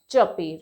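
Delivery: चर्पी as low "chuh-pee", R silent; correct pronunciation. Shown as a demonstration. Teacher repeating for learners, चर्पी with silent R. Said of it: "यहाँ पे आर silent है".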